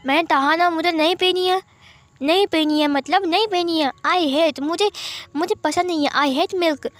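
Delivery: put-on a stubborn six-year-old who won't drink; whiny child. Six-year-old refusing his milk, high and whiny.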